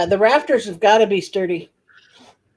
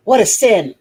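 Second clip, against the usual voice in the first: mock scandalized gasp; 5 semitones higher than usual. Real, not acted. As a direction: play at being scandalized. Mock outrage over movies.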